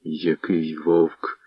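slow, low scornful toss-off; a slow, low sneer of contempt; contemptuous. A narrator's reading. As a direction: sneer it slowly. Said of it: "презирливо кинув Кирило".

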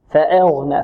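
فأغنى with the hamza vowel wrongly tilted toward e; thin the hamza of فأغنى until its a leans to e. Shown as a demonstration. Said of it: "خطأ".

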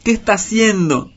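high, loud demanding cry; loud anguished shout at the snake; tearful shout. A narrator's reading. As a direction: shriek the question in distress. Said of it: "le gritó llorando".

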